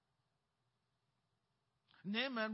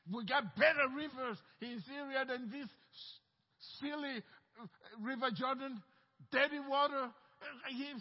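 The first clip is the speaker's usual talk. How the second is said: angry rant; 4 dB louder than usual. Acted. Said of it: "and he was cursing, angry".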